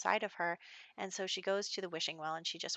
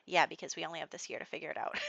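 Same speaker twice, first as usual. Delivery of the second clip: quick, laughing through the words; amused, hurried self-defence; faster than usual. Real, not acted. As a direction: rush it out while giggling. Laughing defence of her choice.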